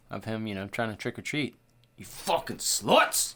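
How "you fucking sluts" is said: mock outburst. Host voices a slasher villain's triggered memories, mock outburst. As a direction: playfully hurl the insult, stretched slow. Voicing Michael's trick-or-treat flashback insult.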